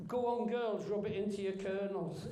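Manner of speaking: hammed-up Cockney read of an ad line, half laughing; bad Cockney accent. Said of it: "doing a really bad Cockney accent".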